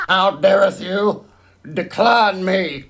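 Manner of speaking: lightly hammed-up olden-day indignation; mock archaic outrage. Host parodying a spurned challenger, mock outrage. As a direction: play offended in mock old English.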